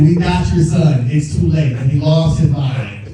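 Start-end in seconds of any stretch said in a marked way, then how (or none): 0.0-1.7 loud, slow mock kidnapper threat. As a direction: menace him like a fake kidnapper. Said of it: "And I said".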